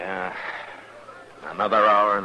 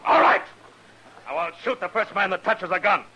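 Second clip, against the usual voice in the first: commanding shout; 10 semitones higher than usual. Acted. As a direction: stop them cold with a shout. Marshal faces down armed men.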